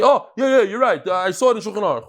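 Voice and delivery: put-on lampoon a kid correcting a great rabbi; student brushing off the rabbi, mocked; mock brash student. Mocking student correcting the gadol.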